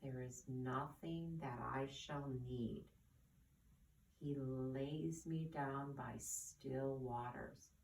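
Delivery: gentle, unhurried recitation; slow scripture quote. Acted. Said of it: "Let's think about those three lines".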